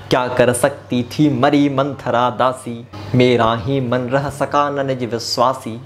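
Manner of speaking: slow, measured verse recital; poem recitation. Acted.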